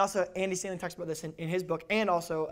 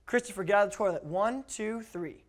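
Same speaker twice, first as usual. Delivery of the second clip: parents' count. Shown as a demonstration. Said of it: "This is my parents' count to three".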